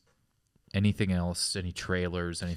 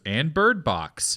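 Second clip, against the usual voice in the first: tour guide; 5 semitones higher, much slower than usual. Retold or imitated. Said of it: "And he goes".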